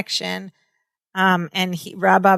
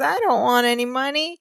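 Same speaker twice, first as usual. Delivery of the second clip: put-on Southern accent; 5 semitones higher, 3 dB quieter than usual. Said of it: "sweet Southern type of accent".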